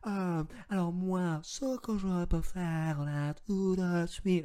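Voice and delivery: a drawn-out, slow bureaucrat's drone; slow official-speak. Retold or imitated. Imitating the Urssaf agent on the phone, slow bureaucratic drone. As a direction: mimic the Urssaf agent stretching every word. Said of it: "elle parlait comme ça".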